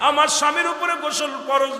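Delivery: high, shouted, wailing and pleading.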